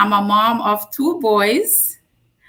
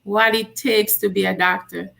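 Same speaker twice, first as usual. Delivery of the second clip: whispered grandma voice; whispered insistence. Retold or imitated. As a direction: urge it in a hushed whisper.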